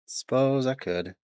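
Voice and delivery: slow, lightly drawled Southern accent. Shown as a demonstration. Streamer tries a slow Southern accent for chat. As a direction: stretch it out Southern style. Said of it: "Read with some southern accent".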